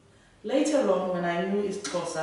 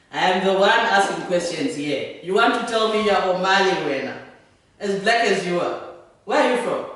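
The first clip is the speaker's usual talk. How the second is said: loud, forceful interrogation; confrontational officer; 9 dB louder than usual. Acted. Immigration officer challenges Martin over who he is, loud and confrontational. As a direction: assert authority, pushing each question out loudly.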